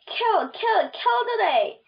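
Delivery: a creepy voice from nowhere chanting kill; strange voice. A narrator's reading. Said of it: "I heard a strange voice".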